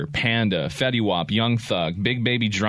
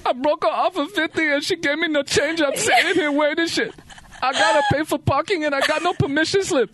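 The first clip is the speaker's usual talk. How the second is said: chipmunk voice. Acted. Played rap clip sped up.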